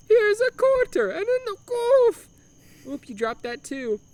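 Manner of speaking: high, hammed-up flustered Italian. Humdinger dropping his coin at the window in mock Italian. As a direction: fumble the coins in broken Italian. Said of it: "obnoxious broken Italian accent".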